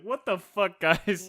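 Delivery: hammed-up offended friend; mock outrage. Imagining friend bursting in, mock indignant and loud. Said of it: "be like".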